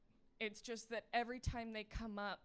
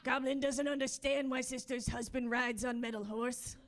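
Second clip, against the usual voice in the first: goblin voice. Acted. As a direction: talk like a baffled little goblin in broken sentences. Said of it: "the goblin that's running on a treadmill in my head".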